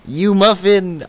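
hammed-up teasing scold; Bad Boy Halo impression. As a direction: playfully scold in a squeaky pitch. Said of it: "Bad Boy Halo's voice".

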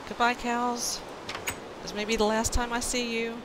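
loud, theatrical goodbye; mock dramatic farewell. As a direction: ham up a tearful farewell.

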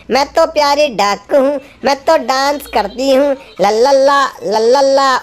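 a light, playful voice for the little duck; sing-song the duck's dance a little; cute duck voice. Acted. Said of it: "dance करके दिखाओ भाई". (हल्की सी प्यारी बत्तख की आवाज़)

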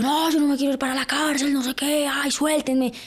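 mock pleading. Retells pleading when arrested.

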